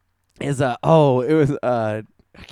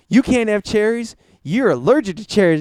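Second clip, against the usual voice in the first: mock sheriff; 6 semitones higher, 3 dB louder than usual. Sheriff voiced in retelling.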